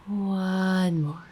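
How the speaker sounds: unhurried guided meditation voice, long pauses between phrases. Acted. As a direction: gently guide the listener into breathing and release.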